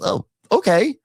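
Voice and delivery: knowing skeptical okay; mock dismissive. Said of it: "Andy goes".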